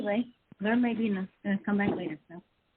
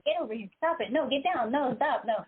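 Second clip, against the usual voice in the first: mom voice; 4 semitones higher than usual. Pretend. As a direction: scold like a mom at the dog. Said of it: "Use your mom voice".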